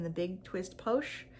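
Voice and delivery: "Posh" said with a light English accent, as "pohsh"; a hint of English accent on "Posh"; slight English accent. Real, not acted. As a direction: let "the Big Twist Posh" slip into a touch of English accent. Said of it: "I'm getting a little English accent coming out there".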